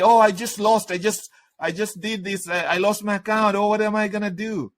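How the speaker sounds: whiny high voice of a panicking student; mock panicked student.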